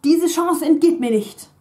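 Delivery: Diese Chance entgeht mir nicht said high and loud; careful model sentence. Shown as a demonstration. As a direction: present entgeht as the correct form. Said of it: "In German, that would be".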